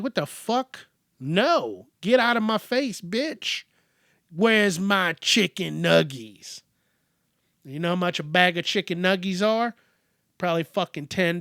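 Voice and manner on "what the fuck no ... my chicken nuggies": mock outraged child, pitched up; bratty kid. Kid snapping at a parent over dinner, hammed-up outrage. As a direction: play a foul-mouthed kid refusing food. Child rejecting food in the skit.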